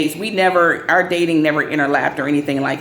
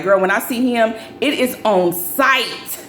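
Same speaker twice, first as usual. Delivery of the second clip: mock threat; 4 semitones higher, slower than usual. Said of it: "'cause I was like".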